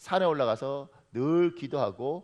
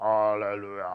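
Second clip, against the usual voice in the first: deep, lowered preacher voice with holy-sounding intonation; 6 semitones lower than usual. Imitating how pastors lower their voice to sound holy: lowered, deep pastor voice. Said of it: "목소리를 깔아요".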